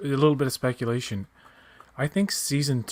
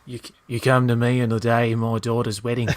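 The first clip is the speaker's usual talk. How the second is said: gravelly mafia don voice; Godfather impression. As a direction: mumble it like the Godfather. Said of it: "It would be more like".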